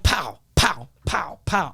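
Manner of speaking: spoken pow, pow gunfire; understated gunshot noises; imitated gunshots. Imitates shooting everyone.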